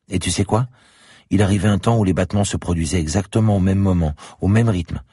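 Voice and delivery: put-on a child proudly sharing her secret; little girl voice. A narrator's reading. Little girl tells the policeman about her father's heartbeat, high and eager.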